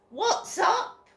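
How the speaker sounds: high, sing-song sleazy what's up; mock flirty voice. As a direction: toss it up high like a creep. Mocking a creepy TikTok message.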